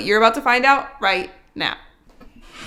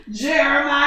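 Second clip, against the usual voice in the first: dramatic gasp-shout; 2 semitones higher, 3 dB louder than usual. Acted. Dramatic sign-off callback.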